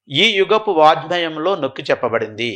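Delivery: slow, word by word for note-taking; slow dictation. Shown as a demonstration. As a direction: dictate it slowly so students can write it down. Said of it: "ఆ point రాసుకోవాలి". (నోట్స్ రాసుకునేలా నెమ్మదిగా చెప్పడం)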